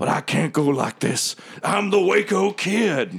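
slow growl, a bit high-pitched. Voicing an Ugnaught being sucked out into the vacuum, growling Ugnaught voice. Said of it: "certainly a fully stretched out Ugnaught's not supposed to go through it. ... I'm the Waco Kid." ... As he growls through".

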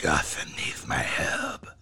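deep, gravel-voiced hero delivery. Describing how Batman lowers his voice: Batman voice, low and gravelly. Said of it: "he's having to like lower his voice and make it gravelly".

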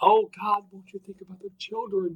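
put-on high, whining, crying little-kid voice. Mocking the complaints heard on Linux podcasts: imitating childish crying. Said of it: "cry like little children about".

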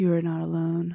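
husky delivery. Giving a friend of the show the words she was waiting to hear, in a husky voice. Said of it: "I was waiting for you in your husky voice to go".

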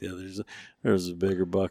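low, flat, unexcited, droning monotone. Imitating the other speaker's reply about the bigger buck: imitating low monotone talk. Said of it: "low and monotone".

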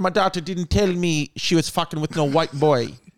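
put-on Jamaican accent, put on. Retelling what a woman said about her daughter dating him, Jamaican accent. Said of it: "I've never heard you do a Jamaican accent".

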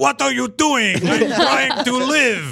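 high, slow, grumbling, thick Eastern European accent, drawn out.

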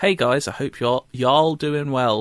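put-on, mock American accent. Reading out a listener's email from Nebraska, American accent. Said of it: "You've got an excellent American accent there".

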